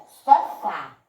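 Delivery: "sofá" with the last syllable loud; stressed final syllable. Shown as a demonstration. Teacher showing pupils the strong syllable, stress on the end of "sofá". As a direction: hit the FÁ in "sofá". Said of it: "eu falei com mais força".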